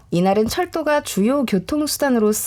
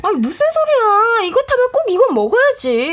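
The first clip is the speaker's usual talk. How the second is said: higher, louder insisting; insistent wife; 11 semitones higher, 4 dB louder than usual. Acted. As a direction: brush off his objection.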